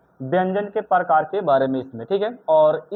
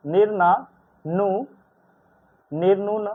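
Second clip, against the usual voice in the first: stumbling slowly over the word; much slower than usual. Real, not acted. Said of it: "अब पढ़ने नहीं आ रहा है".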